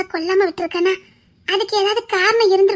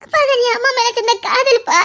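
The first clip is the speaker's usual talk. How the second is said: urgent pleading; 4 semitones higher, 5 dB louder than usual. Acted. Daughter urges father not to cry.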